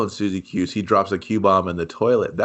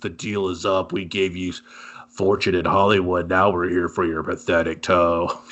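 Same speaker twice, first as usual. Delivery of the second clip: lowered, menacing demon voice; devil voice; 4 semitones lower than usual. Acted. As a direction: play it like a devil come to collect. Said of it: "I'm doing the devil voice".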